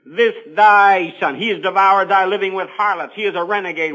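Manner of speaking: sarcastic. Acted. Older brother accusing the prodigal to his dad, sarcastic. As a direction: hit "This thy son" hard, then accuse. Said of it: "The sarcasm of it, the irony".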